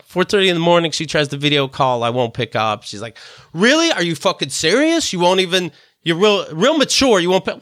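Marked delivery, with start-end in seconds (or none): 3.5-7.6 imitated indignant outburst, pitched up; mock angry rant. Ex yells at him for not answering, mock indignant. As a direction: play the furious ex, hammed up. Ex berates him for ignoring call.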